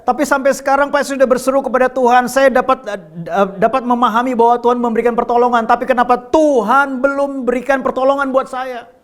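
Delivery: high, insistent pleading question; questioning believer. Acted. Believer asking the pastor why God hasn't helped, high pleading question. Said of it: "mungkin ada yang bertanya".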